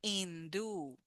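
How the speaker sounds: hindú with silent h and stress on the end, in-DÚ; teacher modelling hindú; model word. Shown as a demonstration. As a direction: drop the h and hit the final ú of hindú. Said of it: "it's with the stress".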